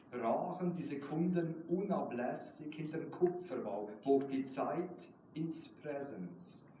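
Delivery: measured German poetry recital, slow on key lines; slow reading of a German poem. Acted. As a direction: read it like your own poem at a reading. Poet reads own German poem.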